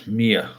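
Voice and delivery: Mia, said like the start of miaow; Mee-ah, two light syllables; name said Mia. Shown as a demonstration. Correcting a chat viewer on her name, Mee-ah. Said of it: "like a cat, not Penny".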